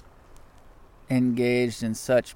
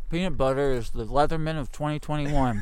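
words round a mouthful; chewing while speaking; mouth full; 3 semitones higher than usual. Real, not acted. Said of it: "with a mouthful of it".

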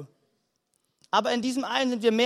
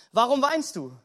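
brighter-pitched, more insistent repeat; lifted repeat of question. Shown as a demonstration. Preacher presses the question after the promise, lifted and insistent. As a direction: ask it afresh with a lift.

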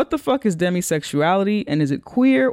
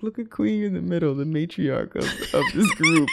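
mock grand announcement; 3 semitones higher than usual. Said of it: "I did not look at that picture and think".

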